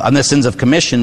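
usual speaking voice

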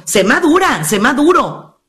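ordinary talk

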